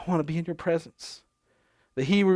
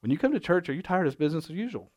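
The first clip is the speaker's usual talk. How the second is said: fast, softer infomercial pitch; 3 dB quieter, faster than usual. Acted. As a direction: read it like a TV ad. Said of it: "this is gonna sound like an infomercial".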